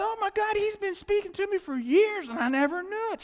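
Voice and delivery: loud, high burst of amazement; astonished realization. Retold or imitated. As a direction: cry it out as a sudden revelation. Acting out his sudden realization.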